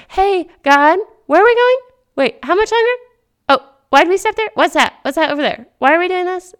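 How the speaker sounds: put-on high, loud, whiny child asking questions; impatient kid on road trip. Kid in the back seat pestering God, high and whiny. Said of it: "I'm like the kid in the back of the car on the road trip".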